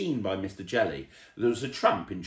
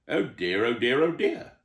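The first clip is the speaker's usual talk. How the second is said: kindly; 3 semitones higher than usual. Acted. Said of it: "for he was a kindly tramp".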